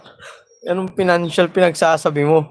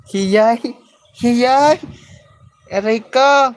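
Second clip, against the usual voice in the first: high, loud yelps of pain; 8 semitones higher, 5 dB louder, much slower than usual. Real, not acted. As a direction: yelp as the pimple is squeezed. Yelps of pain, pimples squeezed.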